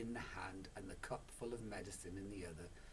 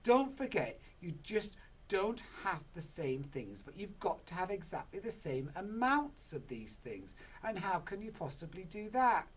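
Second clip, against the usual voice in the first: high, loud know-it-all scolding; nagging wife; 9 semitones higher, 7 dB louder than usual. Acted. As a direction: lecture him on amounts. Missus Cranky goes on nagging.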